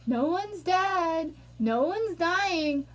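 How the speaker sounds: mock dismissiveness. Voicing dismissive critics, slowly.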